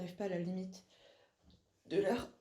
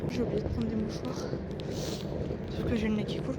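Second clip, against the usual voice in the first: sniffly runny-nose voice; talking with a runny nose; 3 dB louder than usual. Real, not acted. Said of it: "comme ça s'entend".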